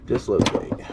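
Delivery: whispered repeat, low and soft. Real, not acted. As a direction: mutter it under your breath. Repeats the word to himself.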